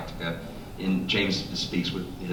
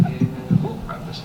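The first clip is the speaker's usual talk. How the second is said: breathy, high put-on American accent; a hammed-up American accent, whispered high; American accent on request; slower than usual. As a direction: play it as an over-the-top American. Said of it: "Do an American accent".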